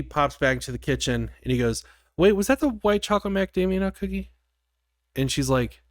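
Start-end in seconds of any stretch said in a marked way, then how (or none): 2.2-4.3 quick, higher-pitched mock alarm; hurried worried question, played up; sudden realization. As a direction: imitate someone urgently double-checking. Boyfriend realizes, retold in alarm.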